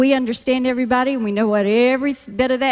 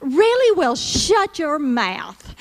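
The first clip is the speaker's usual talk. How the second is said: mock surprise; slower than usual. Shown as a demonstration. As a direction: gasp in fake shock, then drawl it out. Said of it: "this is how Southern speak goes in action".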